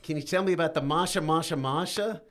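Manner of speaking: a bad fake Chicago accent; Chicago accent attempt. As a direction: try on a Chicago accent, badly. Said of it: "You sound like Tom Hanks in Catch Me If You Can".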